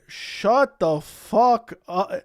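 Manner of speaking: very slow, each word drawn out and pressed; stretched exasperation. Real, not acted. Streamer telling Chandler off again, slow and fed up. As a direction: drag every word, utterly fed up.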